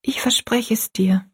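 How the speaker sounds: put-on understated, subdued child's voice; quiet, solemn promise. A narrator's reading. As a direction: promise it quietly to your mother. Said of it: "sagte Rosalie still".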